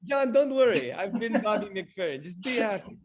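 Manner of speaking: a light carefree singer impression; a singer's voice. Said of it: "thought Bobby McFerrin was actually here".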